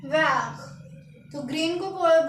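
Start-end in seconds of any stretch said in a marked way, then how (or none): 0.1-0.6 वैक as French vert, with a throaty final r; French pronunciation of वैक. Shown as a demonstration. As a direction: end वैक on a rasped French r. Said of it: "क्या बोलते हैं?".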